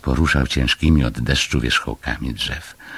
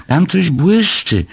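high, loud, drawn-out squeal; shouting; 14 semitones higher, 5 dB louder, slower than usual. A narrator's reading. Little animal spotting something shiny, high excited shouting. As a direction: cry out an exciting sighting. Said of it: "krzyczał".

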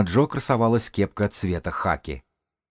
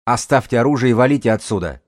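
loud, raised gruff order; rough voice; 4 semitones higher, 5 dB louder than usual. A narrator's reading. Gang's elder orders the intruders out, rough loud command. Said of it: "Грубый голос отозвался не сразу".

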